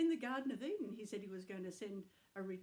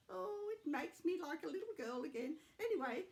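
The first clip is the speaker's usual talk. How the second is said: grandma voice; 6 semitones higher than usual. Acted. Grandma puppet, touched.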